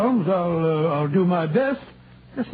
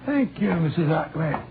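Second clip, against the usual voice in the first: a light put-on Scottish accent, rolling the r's; 5 semitones lower than usual. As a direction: play a canny Scot from Aberdeen, lightly. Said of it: "that delightful Scottish accent you sometimes assume".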